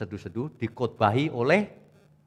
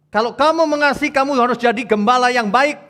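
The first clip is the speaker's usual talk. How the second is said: higher, louder commanding Jesus voice; voicing Jesus; 11 semitones higher, 9 dB louder than usual. Jesus commanding Petrus to be a shepherd, raised and urgent.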